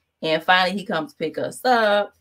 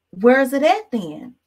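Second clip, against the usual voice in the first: higher, louder demanding question; raised voice; 7 semitones higher, 6 dB louder than usual. Retold or imitated. To her sister about the missing car, higher and louder. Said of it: "And I was just like".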